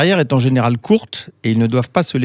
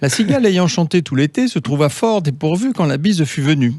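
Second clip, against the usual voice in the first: declaiming poetry; 4 semitones higher than usual. Pretend. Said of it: "vous entendre nous déclamer du La Fontaine".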